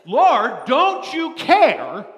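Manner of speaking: loud, high, drawn-out plea; exasperated complaint. Acted. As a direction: cry out at the Lord in frustration. Martha's complaint voiced.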